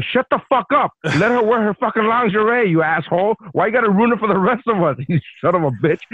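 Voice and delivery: high, heated rant at a rude fan; mock furious fan rant; angry outburst. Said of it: "I'm like, I'm so angry".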